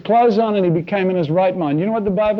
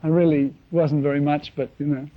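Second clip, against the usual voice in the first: much softer, fawning humble-brag; mock false modesty; 2 semitones lower, 7 dB quieter than usual. Preacher mimicking a flattered preacher, soft mock modesty. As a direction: murmur modestly while fishing for praise. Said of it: "They say".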